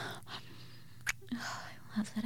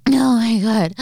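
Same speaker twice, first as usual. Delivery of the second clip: excited; 2 semitones higher, 10 dB louder than usual. Acted. Sudden excited outburst.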